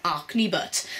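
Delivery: acne, said Welsh as ar-knee, on purpose; Welsh acne again. Shown as a demonstration. Vlogger repeating the Welsh acne for fun. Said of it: "Sounded really Welsh then".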